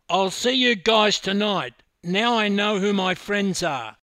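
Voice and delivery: loud, high, indignant shout; yelling. Acted. Swimmer storming out on his teammates, yelling. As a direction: yell it back while storming out. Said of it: "looked back over his shoulder and yelled".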